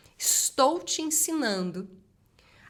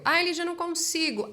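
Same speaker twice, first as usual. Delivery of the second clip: mock whine; 8 semitones higher than usual. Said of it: "student complaining".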